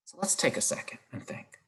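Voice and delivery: hushed prompt to think; whisper. Real, not acted. Teacher hushing the class to think, whispered.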